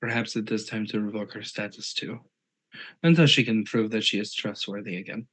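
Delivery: character's put-on accent; Azra's accent. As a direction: speak in a character's assumed accent. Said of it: "As I slip into Azra's accent again".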